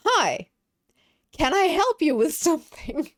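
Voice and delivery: high, loud, polite call into the dark; yelled call-out. Retold or imitated. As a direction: call out brightly to a stranger in the garden. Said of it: "And I just yell".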